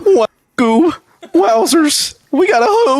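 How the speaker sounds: high goofy cartoon voice. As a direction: goof like a cartoon sidekick. Cartoon Scooby-Doo riff.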